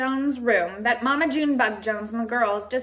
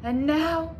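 excited small dog voice; 10 semitones higher, 4 dB louder, slower than usual. Acted. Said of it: "said Paquito".

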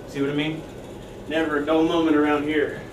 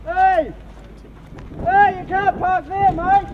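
angry shout; slower than usual. Acted. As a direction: bellow at the driver across the lot. Yelling at parked car.

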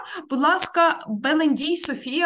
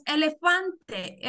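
slow model reading; 3 semitones higher, slower than usual. Shown as a demonstration. Teacher models the word slowly.

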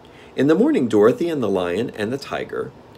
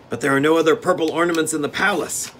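steward; 9 semitones higher, 5 dB louder, faster than usual. Acted.

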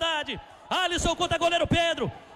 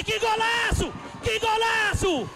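explosive goal commentary; slower than usual. Real, not acted. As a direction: belt out the goal call. Decisive penalty goal.

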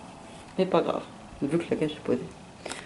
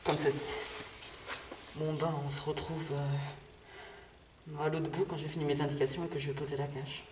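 muffled behind a gas mask; through a gas mask; 9 dB quieter than usual. Real, not acted. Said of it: "je mets le masque". (étouffé derrière un masque à gaz)

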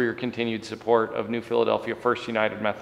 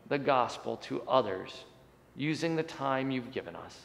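praying for the congregation; prayer; 3 semitones higher than usual. Acted. Pastor leads a prayer.

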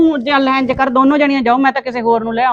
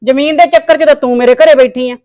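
louder, jabbing accusation; angry accusation; 2 semitones higher, 6 dB louder than usual. Acted. Woman accusing the mother of staying for land, angry and louder. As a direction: call her out over the land, heated. Heated quarrel over land.

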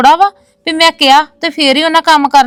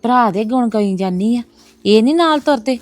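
muttered aside; 6 dB quieter than usual. Acted. Muttering alone after guest leaves.

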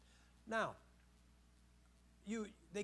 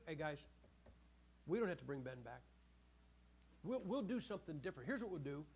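low scheming whisper; 4 semitones lower, 5 dB quieter than usual. Retold or imitated. Simeon scheming with brothers.

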